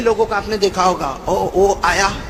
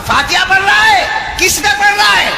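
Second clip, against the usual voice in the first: jinn questioning; 8 semitones higher, 3 dB louder than usual. Acted.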